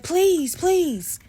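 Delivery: put-on high, loud child's pleading; begging. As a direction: beg like a frightened little kid. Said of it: "he was just like".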